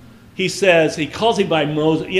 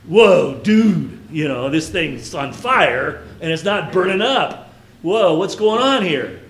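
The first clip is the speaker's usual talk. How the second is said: imitating students; slower than usual. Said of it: "like the students would say at school".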